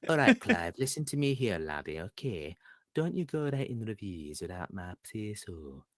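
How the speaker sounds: a stern northern English warning, fading to a mutter; hammed-up regional British scolding; regional British accent. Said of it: "everyone's got, like, a regional British accent".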